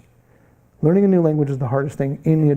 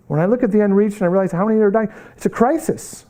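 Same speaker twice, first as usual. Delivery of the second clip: building higher and faster, urgent; rising urgency; 4 semitones higher, faster than usual. Acted. Preacher stirring the congregation with urgency. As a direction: pick up speed and pitch like an emergency.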